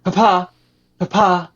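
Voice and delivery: high, loud call for Papa; loud, high character voice. Acted. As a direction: call out through the door, pitched well up. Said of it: "calls out again".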